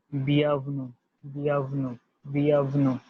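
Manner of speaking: bienvenue said as "byan-vnu"; French bienvenue drill. Shown as a demonstration. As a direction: model bienvenue for students. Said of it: "delivered as".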